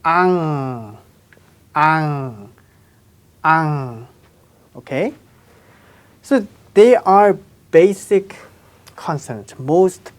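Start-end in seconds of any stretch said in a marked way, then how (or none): 0.0-4.1 "ang" drawn out, ending on held ng; syllable demonstration. Shown as a demonstration. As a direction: model "ang" slowly, ah gliding into NG. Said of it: "its sound value is".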